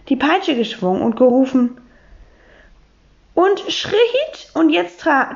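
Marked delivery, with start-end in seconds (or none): 3.3-5.3 high, slow drawn-out calling of commands; riding master. Acted. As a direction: call out to the ponies like a riding instructor.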